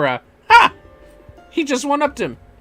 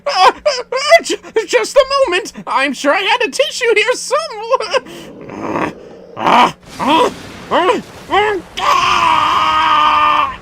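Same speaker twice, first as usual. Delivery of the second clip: higher, stammering nervous attendant; flustered stammer; 5 dB louder, slower than usual. Acted. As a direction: fumble the words in a panic. Voices a flustered nervous character.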